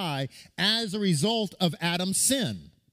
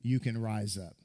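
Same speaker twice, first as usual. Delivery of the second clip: soft encouragement; 5 semitones lower, 6 dB quieter than usual. Retold or imitated. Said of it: "nobody cheering you on saying".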